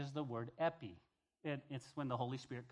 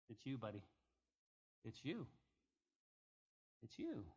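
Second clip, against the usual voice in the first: much softer, low pointed warning; hushed warning; 6 semitones lower, 11 dB quieter than usual. Retold or imitated. God warning Ezekiel the watchman, low hushed warning. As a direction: lean in and press it home quietly.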